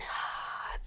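soft, open unvoiced breath out; exhale without smile. Shown as a demonstration. Contrasting it with a smiling breath, plain soft exhale. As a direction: breathe out quietly, mouth relaxed and unsmiling. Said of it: "more like a different vowel than".

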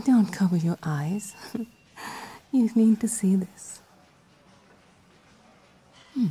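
breathy teasing whisper; seductive whisper. Acted. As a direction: whisper it close and playful.

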